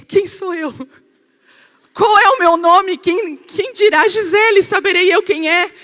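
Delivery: high, loud, disoriented babble; hammed-up confusion of someone jolted from sleep; startled awake. Woman woken for a phone call, acting startled and confused. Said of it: "como tu acorda assim?".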